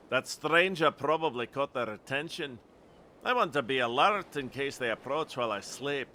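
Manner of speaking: put-on Scottish accent. Lookout explaining precautions to visitor, Scottish accent. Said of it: "if my Scottish accent is bad".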